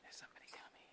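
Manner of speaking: hushed whisper so the passerby won't hear. Real, not acted. Hiker whispering to the camera as someone approaches, whispered. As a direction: drop to a quick whisper.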